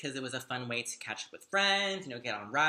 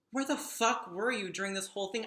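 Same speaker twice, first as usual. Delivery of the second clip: incredulous retold question; 6 semitones higher than usual. Retelling her disbelief at late rescuer.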